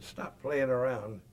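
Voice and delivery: retold holler up the ditch, yelling at a friend he thinks is joking; annoyed call to a buddy he thinks is fooling around; hollering back. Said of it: "I hollered back".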